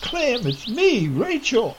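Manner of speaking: high, slow, loud call; desperate shout. A narrator's reading. Rachel shouting as her husband raises his gun, desperate. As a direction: stretch each word out so he hears you. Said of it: "shouted again".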